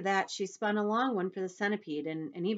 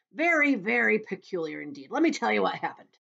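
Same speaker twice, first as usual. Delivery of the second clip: louder, higher storytelling voice; eager centipede; 5 semitones higher, 8 dB louder than usual. Acted. Centipede starting his tale for James, loud and eager. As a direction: launch into it loud and keen.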